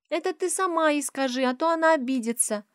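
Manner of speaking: put-on high little girl's retort; high child's voice; cheeky child. A narrator's reading. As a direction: answer back like a small girl. Child answers back.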